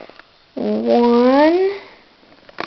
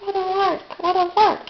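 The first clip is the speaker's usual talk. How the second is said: chuckling; 6 semitones higher than usual. A narrator's reading. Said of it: "he chuckled to himself".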